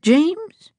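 high, eager questioning call; hopeful call. A narrator's reading. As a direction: call out hoping it's him. Hopeful call after Harriet.

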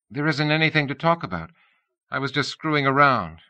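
brushing off the worried caller; lightly voiced young woman.

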